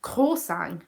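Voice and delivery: "croissant" as kraw-SANG; preferred pronunciation. Shown as a demonstration. Showing how she wanted it, "croissant" as kraw-SANG. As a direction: say "croissant" with a nasal ng ending. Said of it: "how I wanted to pronounce it".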